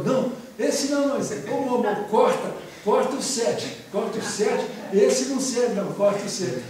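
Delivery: high, loud mock outcry; crowd protest. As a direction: shout objections like an indignant crowd. Acted crowd protesting Moses' seventh commandment.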